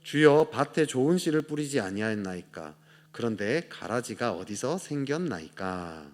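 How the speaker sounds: slow, measured reading of the verse aloud; scripture reading. Shown as a demonstration. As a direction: read the old verse slowly and solemnly. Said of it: "같이 한번 읽어보겠습니다. 시작". (천천히 성경 본문을 낭독하듯)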